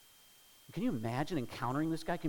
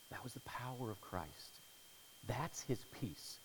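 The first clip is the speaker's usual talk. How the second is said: usual speaking voice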